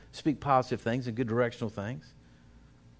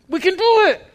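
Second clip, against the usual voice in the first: high cheerful pep; 12 dB louder than usual. Retold or imitated. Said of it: "a whole week of that".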